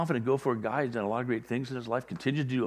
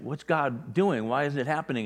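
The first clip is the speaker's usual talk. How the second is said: impatient; 4 semitones higher than usual. Retold or imitated. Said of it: "you're feeling impatient".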